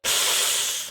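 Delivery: long hissed breath of unease; awkward, drawn-out wince sound; yikes breath. Shown as a demonstration. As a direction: let air out through the teeth, yikes. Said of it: "this one just called Yikes".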